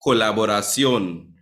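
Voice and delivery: "colaboración" with the stress on the final ón; stress on last syllable. Shown as a demonstration. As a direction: land on the ón of "colaboración". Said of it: "where the stress goes on the own".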